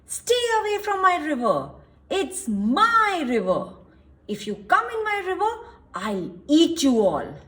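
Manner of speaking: loud, bossy river-guarding crocodile; crocodile shouting. Acted. Selfish crocodile shouting at the forest creatures to stay away. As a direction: roar the warning at the creatures. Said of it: "he shouted to the creatures".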